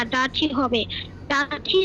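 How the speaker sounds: ডার্টি with no R sound; silent R. Shown as a demonstration. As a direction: say ডার্টি leaving the R unpronounced. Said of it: "আর এর উচ্চারণটা হবে না".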